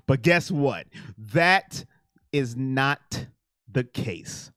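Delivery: a wrestling-promo build down to a hush; Paul Heyman impression. Telling chat in a slow, low hush like a wrestling mouthpiece. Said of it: "That's my best Paul Heyman impression".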